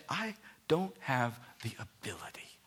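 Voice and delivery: Moses whispering his excuse; a small, unvoiced plea; whispered Moses. Moses voiced pleading to God.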